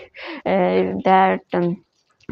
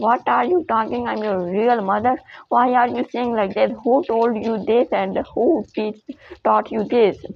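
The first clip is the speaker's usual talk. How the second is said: fast, pitched-up indignant denial; protesting mother; 3 semitones higher than usual. Acted. False mother insists to the girl she is real, indignant. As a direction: act wounded and insist on it.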